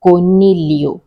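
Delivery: coniglio with no G sound before the L; silent G. Shown as a demonstration. Repeating rabbit in Italian for learners, coniglio with silent G. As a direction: demonstrate coniglio, gliding into "lyo" with no hard G. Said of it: "G is silent".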